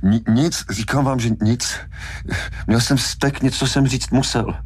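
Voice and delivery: high, strangled, stammering excuse; choked. A narrator's reading. Hooper explaining while being throttled, choked. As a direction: plead through a squeezed throat. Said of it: "Hooper sotva dýchal".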